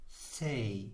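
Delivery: "Say" as the Dutch name of letter C; pronunciation demo. Shown as a demonstration. Teacher trying out a Dutch letter for learners, careful pronunciation demo. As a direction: sound out "Say" alone as one Dutch letter. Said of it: "to pronounce this letter".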